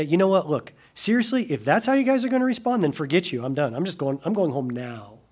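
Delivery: fed up. Pretend. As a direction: brush them off in a huff. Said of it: "does he say".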